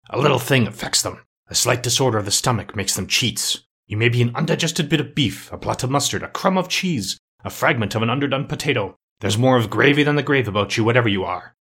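a touch of brisk defiance, slightly lifted; lightly voiced Scrooge. Scrooge arguing with the ghost over his senses, mild defiance. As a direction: lightly play a doubter talking back.

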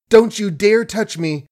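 high, frightened warning; panting defiance. A narrator's reading. Margaret fends off the grabbing tramp, high and frightened. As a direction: keep him off, pitch up in fear. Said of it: "she panted".

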